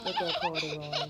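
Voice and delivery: laughing while pointing at the bear. Real, not acted. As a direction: chuckle through the words. Father laughing reading to kids.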